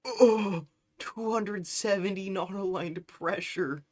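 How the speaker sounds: high, loud startled cry; shocked cry. Real, not acted. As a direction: yelp at the number. Shocked at pressure number.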